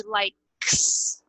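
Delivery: LIKES in one syllable with a long final ks; single ending sound. Shown as a demonstration. Teacher contrasting endings, LIKES as one syllable with hissed ks. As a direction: hold the S ending of LIKES, no added vowel. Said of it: "que é um som só".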